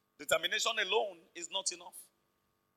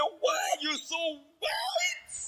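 turning the taunt back; 8 semitones higher, much slower than usual. Retold or imitated. The boy answering his bullies, mocking rise on white. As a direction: pitch leaping up high on white.

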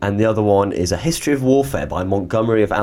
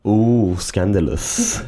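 titillated; much slower than usual. Real, not acted. Reacting to a scandalous story.

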